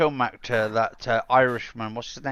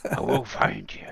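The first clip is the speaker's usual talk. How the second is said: put-on Irish accent; 4 dB quieter than usual. Podcaster finishing the Taken threat, Irish accent. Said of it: "that Irish accent, that one where he says that quote".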